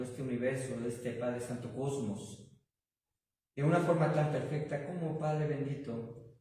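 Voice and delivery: earnest spoken prayer to the Father, swelling and fading. Acted. Pastor praying aloud to God for the church, earnest prayer. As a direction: lead the congregation in heartfelt prayer.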